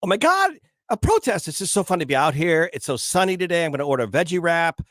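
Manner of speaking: high, gushing student voice; mock young gal chirping at a reporter; young protesters. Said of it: "I did a little bit of an imitation ... you've heard younger people talk like this".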